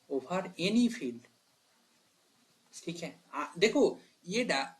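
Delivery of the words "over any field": over any field, drawn out slowly word by word; slow, weighty teacher repeat; slow emphasis. Shown as a demonstration. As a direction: stretch out over any field to drive it home.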